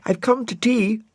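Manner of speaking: put-on high, bright girl's voice; bright Florence. Florence arriving for tea, brightly. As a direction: sing it out cheerfully as a little girl. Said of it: "said Florence brightly".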